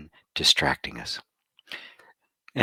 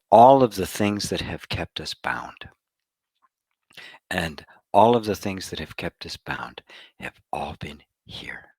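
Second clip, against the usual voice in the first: whispering; 2 semitones lower than usual. Real, not acted. Intimate whispered repetition.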